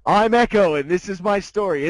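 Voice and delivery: playful parody of a sitcom title line; sitcom intro voice. Pretend. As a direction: announce it like a cheesy TV intro. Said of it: "sounds like the intro to a bad sitcom".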